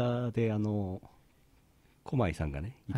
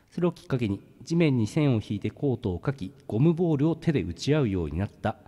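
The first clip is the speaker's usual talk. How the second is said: reading aloud; 3 semitones higher than usual. Acted. Reads an article aloud.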